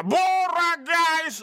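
high, long-drawn football yell; imitating a man's drawn-out chant; sudden shout. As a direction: holler it out of nowhere, vowels stretched. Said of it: "börjar mannen från ingenstans ropa".

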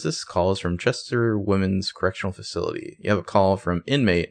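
automated prison phone voice; lightly voiced recorded robot. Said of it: "the jail robot says".

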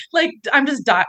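breaking up, laughing too hard to finish; can't get the words out for laughing; helpless laughter. Real, not acted. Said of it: "I just pissed myself".

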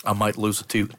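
words through a mouthful; chewing while talking. Real, not acted. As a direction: mouth full of candy. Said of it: "I'm chewing some really weird candy here".

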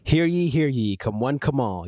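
town crier calling out the show; loud carnival barker. Pretend. Show opening call to listeners.

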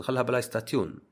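بلاي ستاتيون read letter by letter as stah-tee-yoon; mocking a spelling-based بلاي ستاتيون; mock literal spelling. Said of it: "ليه توقف عند بلاي ستيشن".

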